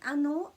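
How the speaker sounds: "A nō", the macron vowel long and loud; long stressed nō. Shown as a demonstration. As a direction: lean on nō, drawn out for the macron. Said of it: "this nō has got a macron on, so it's emphasized".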